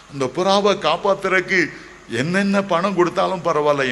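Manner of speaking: desperate pleading for the dying bird; anguished plea. Retold or imitated. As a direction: cry out as if begging to save it. Anguished longing to save pigeon.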